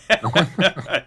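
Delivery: slow, lightly voiced old man; a hint of a very old man. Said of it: "Cam's old man voice has just subscribed".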